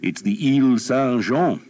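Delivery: voiced earl. A narrator's reading. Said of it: "the Earl said".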